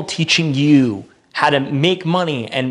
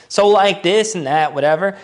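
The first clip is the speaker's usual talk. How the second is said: lightly mocking Southern California accent, pitched up; a touch of Californian girl-speak; 5 semitones higher than usual. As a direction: imitate a SoCal girl vlogger. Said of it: "talk like a Southern California white girl".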